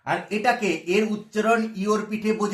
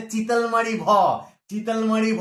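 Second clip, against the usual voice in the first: called-out village letter name; slower than usual. Shown as a demonstration. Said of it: "গ্রাম এলাকায় এটাকে বলে".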